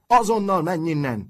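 high, loud order to leave; indignant shout. A narrator's reading. Nurse chasing a visitor out of the sickroom, shouting. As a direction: cry it out sharply, pitched high. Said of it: "kiáltott".

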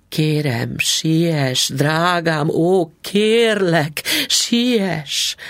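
urgent pleading. Acted. Wife begging husband to hurry.

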